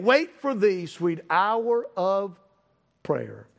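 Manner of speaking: slow, drawn-out verse with pauses; hymn recitation. Acted.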